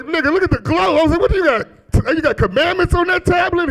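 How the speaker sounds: high-pitched excited questioning; comic wonder-struck exclaiming; mock amazement. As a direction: hail the sight in hammed-up awe, pitch way up. Mock awe at Moses-like kid.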